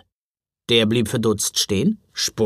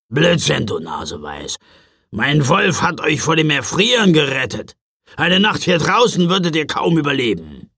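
gruff scolding; 2 semitones higher, 4 dB louder than usual. Acted. Knecht Ruprecht scolds the child.

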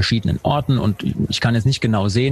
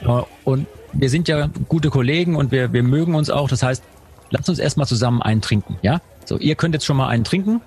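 cork in mouth. Shown as a demonstration. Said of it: "man hätte einen Korken im Mund".

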